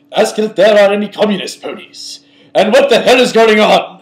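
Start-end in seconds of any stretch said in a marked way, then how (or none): 0.1-2.2 put-on Russian accent. Reading a line aloud as if he were Russian: put-on Russian accent. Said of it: "I'm just going to try to do this as if I were Russian".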